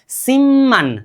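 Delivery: सिमन with a long, held double m; demonstrated pronunciation. Shown as a demonstration. Teacher models the new word for learners, demonstrated pronunciation. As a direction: say सिमन slowly, humming the doubled म. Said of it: "क्या बोलना चाहिए अब हमें".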